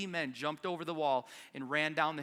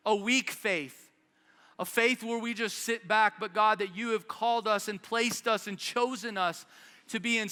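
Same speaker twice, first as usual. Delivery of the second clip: earnest pastor's prayer, slightly raised; closing prayer. Acted. Pastor prays over his church, fervent and earnest.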